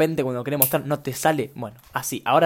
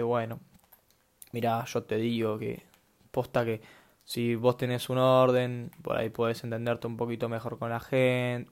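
calm advice; 3 semitones lower, 5 dB quieter, slower than usual. Retold or imitated. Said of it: "el chabón ... te dice".

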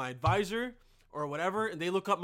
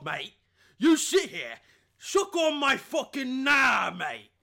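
loud, higher mock English accent, menacing and slow at the end; aggressive English accent; 6 semitones higher, 8 dB louder than usual. A mock English lout threatening a posh guy, loud English accent. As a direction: bark it like a hammed-up English lout picking a fight. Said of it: "Kinda sounded Australian there".

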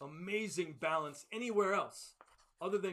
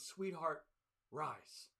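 soft, lower tender call; gentle words; 3 semitones lower, 7 dB quieter, much slower than usual. Retold or imitated. Jesus gently raising the little girl, soft and lower. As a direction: coax her awake, very softly. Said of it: "gently touches the girl and says".

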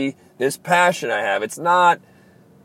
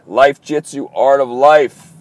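loud catchphrase; 8 dB louder, slower than usual. Acted. Show catchphrase shouted at sign-off.

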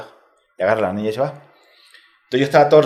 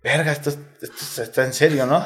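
laughing disbelief; 2 semitones higher, 4 dB quieter than usual. Retold or imitated. Retold shock, laughing.

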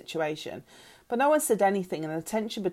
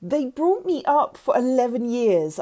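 raised, higher-pitched indignant shout; angry shout; 5 semitones higher, 5 dB louder than usual. A narrator's reading. Girl defending her adoptive parents, shouting. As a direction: throw it at her loudly. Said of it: "I shouted".

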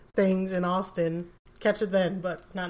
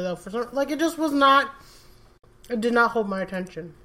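mouth full. Real, not acted. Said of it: "talking with my mouth full".

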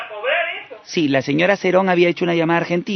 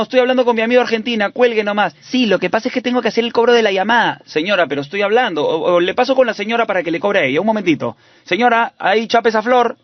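lightly raised, polite operator; phone operator voice; 4 semitones higher than usual. Acted. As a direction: play a sweet phone company girl. Prankster plays phone operator.

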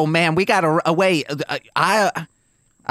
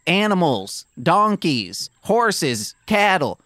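raised mock shout to the animals; calling out; 3 semitones higher, slower than usual. Shouting to the animals in the stable, raised and reassuring. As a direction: call out to the stable, pitched up. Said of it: "I scream".

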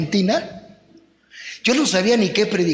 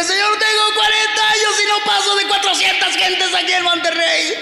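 raised, pleading cry to God; retold desperate prayer; 8 semitones higher than usual. Pastor retelling his plea to God, raised pleading voice. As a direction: plead with the Lord, voice lifted high.

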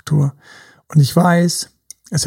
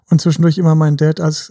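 ordinary delivery

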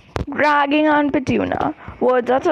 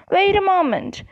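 bellowed; 7 semitones higher than usual. A narrator's reading. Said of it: "bellowed the fire".

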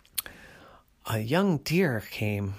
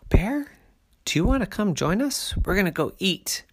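bear cub voice; 7 semitones higher than usual. A narrator's reading. Cub invites other bear.

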